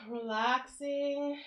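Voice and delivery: slow sigh into relaxing; sighing, relaxed. Real, not acted. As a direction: breathe out and let go. Sighs into the stretch.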